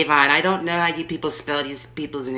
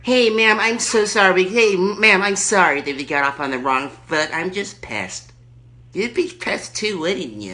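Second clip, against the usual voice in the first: Erkenbacher; 2 semitones higher than usual. Acted. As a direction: play the lady caller backing down. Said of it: "Erkenbacher calling back".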